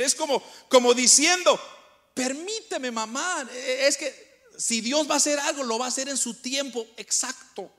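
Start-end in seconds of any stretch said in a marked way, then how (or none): 2.1-7.7 gentle. Shown as a demonstration. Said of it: "era un tono suave, amante".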